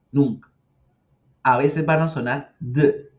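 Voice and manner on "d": a lone "d", voiced like the D in dedo; voiced D sound. Shown as a demonstration. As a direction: buzz a short voiced "d". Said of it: "como la D de dedo".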